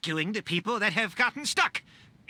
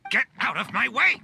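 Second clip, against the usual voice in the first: angry push; 2 semitones higher, 4 dB louder than usual. Acted. Forcing past guards.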